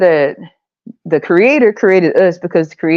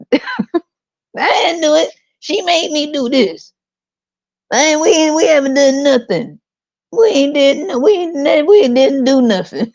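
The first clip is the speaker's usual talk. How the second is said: high, whiny mock denial; hammed-up guilty Adam; Adam denying; 8 semitones higher than usual. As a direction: plead innocence like a caught kid. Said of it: "Eve blamed Adam".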